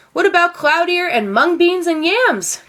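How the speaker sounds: high, eager villager calling out; eager cry. A narrator's reading. Villagers to the monks, an eager high cry. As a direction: call out the ingredients with delight. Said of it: "cried some others".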